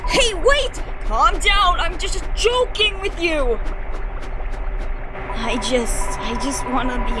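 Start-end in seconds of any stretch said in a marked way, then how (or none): 0.1-3.6 shouting. Acted. Frantic call after someone.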